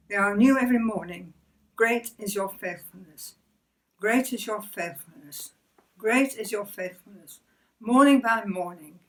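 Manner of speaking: measured, reverent recitation with falling phrase ends; devotional scripture reading. Acted. Believer reciting verses on God's faithfulness, devotional reading. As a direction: read it aloud as scripture, pausing between phrases. Reads Bible verses and hymn aloud.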